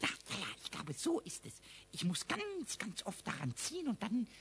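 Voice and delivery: cheeky little kobold musing aloud; curious imp mumbling to himself. Acted. Pumuckl talks to himself.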